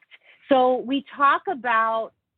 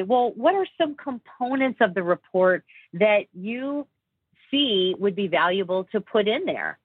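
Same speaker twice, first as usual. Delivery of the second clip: approachable voice. Shown as a demonstration. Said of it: "invite them more in an approachable voice".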